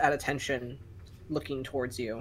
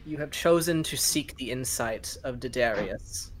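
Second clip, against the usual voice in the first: deep rumbling voice. Acted. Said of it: "deep rumbling voice".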